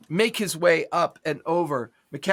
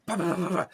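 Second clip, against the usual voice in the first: rapid burst of "bah-bah-bah"; imitated gunfire; 4 dB quieter, much faster than usual. Game master narrating a reload and firing, mouthed gun burst.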